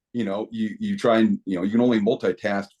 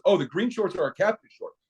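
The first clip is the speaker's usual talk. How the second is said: high-pitched, openly voiced recital; coach's rehearsed repeat; 9 semitones higher than usual. Coach repeats the whispered excuse to official, rehearsed innocence. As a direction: repeat the fed line aloud in a higher voice. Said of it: "you're gonna re-, repeat it to me".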